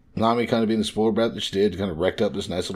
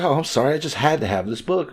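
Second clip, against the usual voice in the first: lightly voiced cute kid, a bit higher; cute little kid; 5 semitones higher than usual. Little girl excusing a stolen book, lightly imitated cute kid. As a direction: imitate a child's sweet apology. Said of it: "Nami being a cute little kid".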